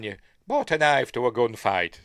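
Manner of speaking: hint of an Irish cop scolding; light Irish accent. Mild Irish accent, reviewer redoing the film line as an Irish cop. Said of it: "should do that in an Irish accent".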